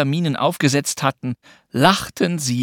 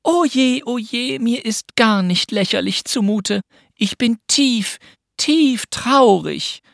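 put-on high, drawn-out girlish wail of woe; mock-sad lament; 11 semitones higher, slower than usual. Pünktchen repeats the game's line, high and mock-tragic. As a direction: play deeply sad, stretching the last words. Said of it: "wiederholte sie".

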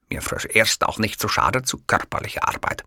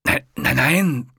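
soothing; 7 semitones higher, 4 dB louder, slower than usual. A narrator's reading. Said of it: "beschwichtigte der Mann".

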